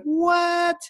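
high squeaky incredulous what; shrill disbelieving what; baffled what. Retold or imitated. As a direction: act out total bewilderment. Baffled reaction to mom's self-criticism.

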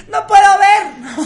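high, slow, laughing whine; whiny high wail. Retold or imitated. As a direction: wail that you can't see. Niña al día siguiente cegada. (lamento agudo y lento entre risas)

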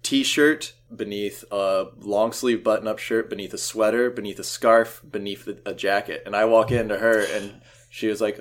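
usual speaking voice

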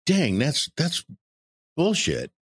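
a hammed-up burst of annoyance at yourself; mock frustrated outburst. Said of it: "stop yourself in the middle of your anger".

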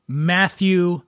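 slow drawn-out movie star drawl; Matthew McConaughey drawl. Retold or imitated. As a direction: stretch the name out like a laid-back star. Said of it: "We remember Matthew McConaughey".

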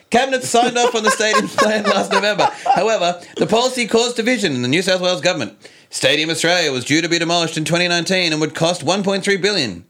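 high, bright news-anchor delivery; reporter voice. Pretend. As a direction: read it like a TV reporter. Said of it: "reporter voice".

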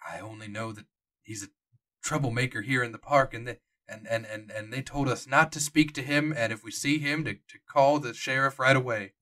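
lightly voiced old park docent, hesitant. Old docent telling the players what he cannot say, hesitant. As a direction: stammer like a guide who cannot say what he knows. GM voicing Jonah.

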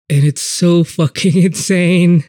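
laughing in disbelief. Real, not acted. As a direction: laugh through the words.

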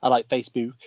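"Facebook" with a Stoke long oo; Stoke accent. Shown as a demonstration. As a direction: show off the Stoke "book" in "Facebook". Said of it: "then you sound more like a Stokey".

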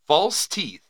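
measured headline reading; news read. Acted. Co-host introducing a 1912 article, measured news read. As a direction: announce it like an old newspaper story.

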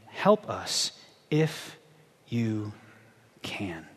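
slow, fading plea that sinks to a whisper; pleading father. Acted. Father begging Jesus for his son, fading to a whisper. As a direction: beg softly, losing hope.

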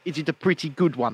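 lightly questioning South African accent. Shown as a demonstration. Host asking if it passes, South African accent. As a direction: seek praise in put-on South African. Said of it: "How does that sound to you".

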